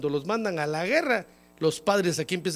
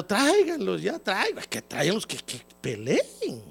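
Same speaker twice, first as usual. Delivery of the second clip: mock whining plea; 2 semitones higher than usual. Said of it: "ahí están llorando".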